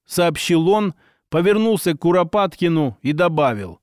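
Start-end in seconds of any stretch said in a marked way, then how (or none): none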